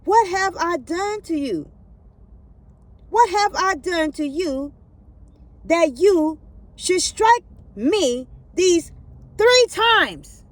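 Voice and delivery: slow, rising pleading that peaks high and loud; plead, climbing to an anguished cry; wounded donkey's plea. Acted. The donkey pleading with Balaam, slow and climbing to a cry. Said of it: "she said to Balaam".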